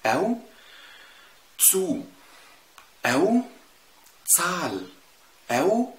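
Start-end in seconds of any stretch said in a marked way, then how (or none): 1.6-2.0 تسو begun with TS, higher pitch; TS at word start. Shown as a demonstration. Teacher giving a German Z example, TS opening on تسو. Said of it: "نطقه كأنه تاء سين دايمًا". 4.3-4.9 تسال begun with a crisp TS; TS at word start. Shown as a demonstration. Teacher giving another Z example, TS opening on تسال. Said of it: "نطقه كأنه تاء سين دايمًا".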